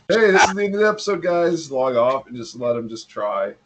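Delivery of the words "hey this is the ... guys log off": fast mock show outro; rushed sign-off. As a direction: rattle off a quick goodbye. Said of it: "I'm tempted to be like".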